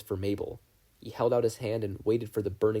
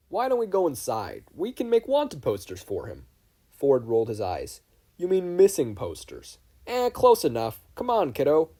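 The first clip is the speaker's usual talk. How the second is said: gruff Grunkle voices; 5 semitones higher, 5 dB louder than usual. Acted. Stan and Ford at the porch.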